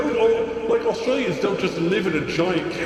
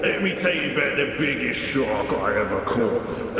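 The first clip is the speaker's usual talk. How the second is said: lightly done bad Australian accent. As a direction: tall tale in a weak Aussie accent. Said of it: "Please do bad Aussie accent".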